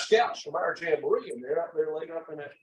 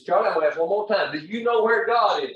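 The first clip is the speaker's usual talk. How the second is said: louder, with weight on Charlie and God; final stern warning; 5 semitones higher, 6 dB louder than usual. Retold or imitated. Pastor warning the boy one last time, louder and firm. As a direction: make it a last warning to a scared kid.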